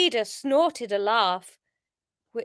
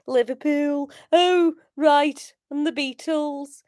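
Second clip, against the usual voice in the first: Scouse warm-up; 4 dB louder, slower than usual. Shown as a demonstration. Warming up Scouse accent.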